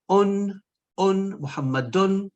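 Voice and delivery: the ending "un" drawn out and high; stressed ending un. Shown as a demonstration. Teacher stressing the ending "un" for students, drawn out. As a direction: hold the "un" of "Muhammadun" long and clear. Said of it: "look at the ending".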